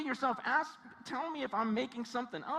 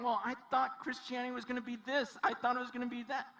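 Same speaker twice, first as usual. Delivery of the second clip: complaining. Acted. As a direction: protest like a let-down believer. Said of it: "there's so much complaining".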